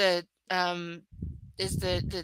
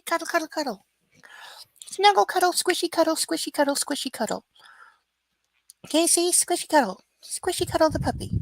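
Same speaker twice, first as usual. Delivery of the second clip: cooing to dog; 5 semitones higher, faster than usual. Real, not acted.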